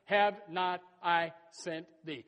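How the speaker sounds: slow, weighty delivery of "Have not I sent thee?"; slow emphatic. Shown as a demonstration. Preacher to congregation, "Have not I sent thee?" said slowly. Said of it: "let's go back to that".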